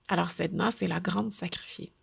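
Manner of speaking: a breathless storyteller's whisper; hushed whisper. Acted. Telling listeners of Sedna's sacrifice, in a whisper. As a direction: whisper it, awed by her fate.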